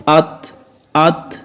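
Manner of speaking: ات with a breathy puff after the t; ات ending in a light th breath; soft aspirated t. Shown as a demonstration. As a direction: let air escape after ات. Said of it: "آخر میں جو تھے، تھے کی آواز".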